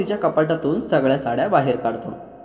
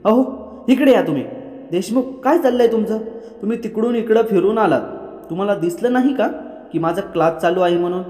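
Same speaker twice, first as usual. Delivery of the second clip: annoyed scolding; 5 semitones higher than usual. Acted. Kavya scolds husband interrupting class.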